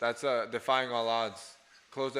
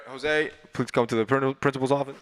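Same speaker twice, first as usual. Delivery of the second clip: louder, announcing like a school intercom; loudspeaker call; 6 dB louder than usual. Retold or imitated. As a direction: call him to the office over the PA. Principal calls over the speaker.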